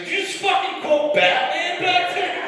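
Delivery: very high, loud mock disbelief; incredulous wife. Wife challenges husband's superhero line, loudly incredulous. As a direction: imitate a shocked wife, pitch shooting up.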